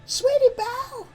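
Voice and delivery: high, loud frightened call. A narrator's reading. Friends calling after a runaway filly, high loud cry. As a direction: shout after a friend who ran off. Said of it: "her friends called after her".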